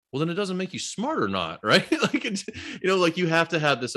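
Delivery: high, laughing through the words. Real, not acted. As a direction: break into a laugh mid-thought. Laughs at the end.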